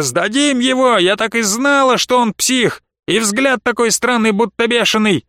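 high, eager gossiping woman; excited crowd woman. Acted. Woman in the crowd, high and eager. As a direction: pile on, sure she knew it.

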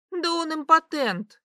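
put-on a touch of drunken outrage; indignant outburst. A narrator's reading. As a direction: blurt it out, scandalised. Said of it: "возмутилась Ви".

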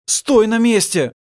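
loud, high, drawn-out yell; father's urgent command; shouting. A narrator's reading. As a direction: shout to halt your son. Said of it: "он закричал сыну".

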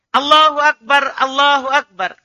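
"Allahu Akbar" twice, even tone, falling on the second; exact tone. Shown as a demonstration. Teacher showing the right tone, "Allahu Akbar" without questioning. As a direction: model "Allahu Akbar" as a measured call, not a question. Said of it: "Nadanya harus pas".

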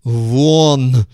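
a loud bark; barked order. A narrator's reading. Тюрин throwing the visitor out, barked order. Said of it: "гаркнул Тюрин".

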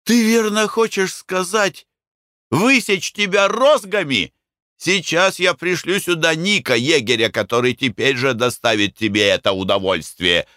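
sneering mockery. A narrator's reading. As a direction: belittle the boy. Mick mocks the narrator.

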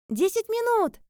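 loud high shout from afar; shouted reply. A narrator's reading. Sai shouts from the bath through the door.

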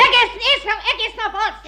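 high, through laughter; mother laughing off the taunt; laughing retort. Acted. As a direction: scoff while laughing.

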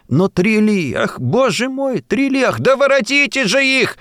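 high, moaning plea from a nervous lady; high fretful moan. A narrator's reading. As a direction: whine for them to come back. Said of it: "Застонала нервная дама".

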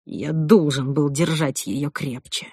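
slow, sunken self-reproach; dejected, low voice. Acted. Groom blaming himself for her fall, dejected. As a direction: let the voice drop in guilt. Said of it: "продолжал он упавшим голосом".

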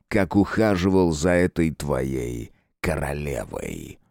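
sinister ruler savoring it; dark lord. Acted. Lord addresses Thomas.

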